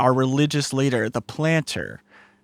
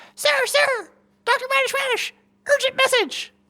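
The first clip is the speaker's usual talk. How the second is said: very high, tiny, sweet, cute little voice. Voicing a jumping spider bringing an urgent message: cute little voice. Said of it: "He has a cute little voice".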